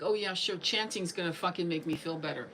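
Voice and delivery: dismissive, mocking "oh yeah, sure"; sarcastic attitude. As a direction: roll your eyes through the words. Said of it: "like, attitude".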